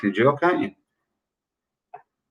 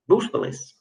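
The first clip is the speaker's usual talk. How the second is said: stage whisper; 8 semitones higher, 7 dB quieter than usual. Acted. Quiz host reveals the answer.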